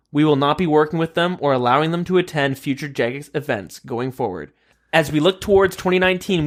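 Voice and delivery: measured formal statement read-out; reading a prepared statement aloud; reading official statement. Acted.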